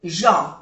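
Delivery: gens as zhon, nasal and no s; French gens. Shown as a demonstration. Teacher modelling gens for Spanish speakers. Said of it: "no se pronuncia la S".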